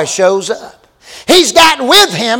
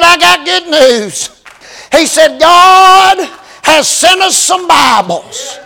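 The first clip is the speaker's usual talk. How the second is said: joyful announcement; 5 semitones higher, slower than usual. Retold or imitated. Young pastor telling his flock God sent Bibles, jubilant. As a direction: announce the gift like a victory.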